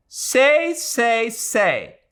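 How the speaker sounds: bitter, mocking repetition fading away; old lady bitterly mocking Adela's plea. A narrator's reading. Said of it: "said the old lady bitterly".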